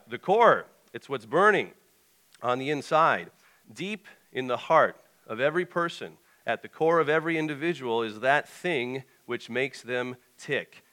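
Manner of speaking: measured, emphatic reading from the page; deliberate pulpit reading; read-aloud mission statement. Acted. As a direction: read it out as a declaration, leaning on key words. I'm just gonna read the.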